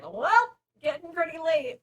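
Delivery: loud, high, drawn attention to the hour; pointed hint to leave. Acted. Hosts nudging a guest to go home, pointed hint. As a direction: announce it loudly as a hint. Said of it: "slapping their thighs and going".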